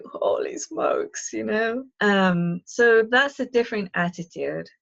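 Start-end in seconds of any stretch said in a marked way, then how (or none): 0.0-1.3 stunned aside. Retold or imitated. Retold own stunned reaction.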